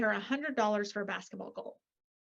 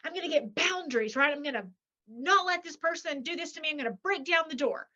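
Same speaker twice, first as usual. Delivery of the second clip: mock fired-up; 4 semitones higher than usual. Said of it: "you're so mad, you're so angry, you're like".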